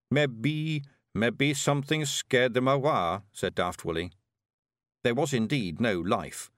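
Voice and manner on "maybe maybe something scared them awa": put-on broad Scottish accent. Willie guesses.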